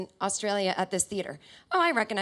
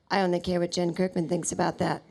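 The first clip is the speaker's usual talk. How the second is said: lightly voiced low deadpan; low, a hint of celebrity impression; a singer; 5 semitones lower than usual. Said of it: "look at me in the front row and go".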